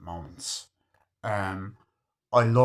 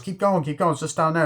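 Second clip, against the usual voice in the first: lightly voiced, higher-pitched urging; Robert De Niro; 7 semitones higher, 4 dB louder, faster than usual. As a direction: mimic a film gangster coaxing someone onward. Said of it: "De Niro goes".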